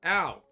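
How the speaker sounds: loud, high "ow"; mock pain cry. Player whose game character takes harm, mock pain cry. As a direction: yelp as if hit.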